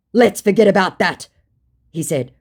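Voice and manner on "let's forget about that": raised, louder put-on reply; scammer's dodge. Scammer wanting the chat to vanish, mildly mocked insistence. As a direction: lightly voice a bluffer brushing it off.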